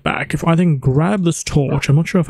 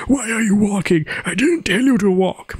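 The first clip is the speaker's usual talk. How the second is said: mock scolding; 6 semitones higher than usual. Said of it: "angering at my dog".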